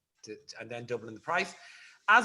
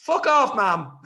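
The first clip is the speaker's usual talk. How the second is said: much higher, much louder, laughing yelp; laughing outburst; 12 dB louder than usual. Real, not acted. Son caught off guard by mum calling, laughing loudly. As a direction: blurt it out through real laughter. Mother calls in live, laughing.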